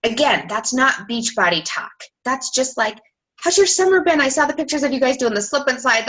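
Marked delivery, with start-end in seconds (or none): 3.4-6.1 higher-pitched, lively friendly opener; friendly chatty message. Acted. Coach following up with a contact, friendly and chatty. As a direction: act out an eager, casual catch-up.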